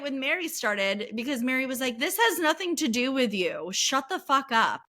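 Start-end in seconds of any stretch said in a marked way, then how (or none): 2.0-4.8 retold telling-off. Retold fight, Mary telling Whitney off.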